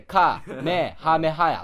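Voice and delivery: "カメハメハヤ" slowly, broken into separate loud syllables; romanized syllable-by-syllable reading. Retold or imitated. Actor reading the script's romaji, "カメハメハヤ" in slow separate syllables. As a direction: sound out "カメハメハヤ" piece by piece like Roman letters. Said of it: "あの、ローマ字で、".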